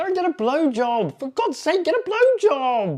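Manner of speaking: high-pitched shouting. In a heated argument with the other person, yelling. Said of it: "why are you yelling at me?".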